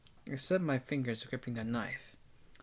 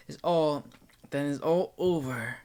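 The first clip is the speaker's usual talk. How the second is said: building resolve; 6 dB louder than usual. A narrator's reading. Narrator about to strike Nero.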